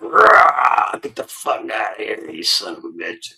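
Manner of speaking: mock yell at the dog; retold yell. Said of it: "I was like".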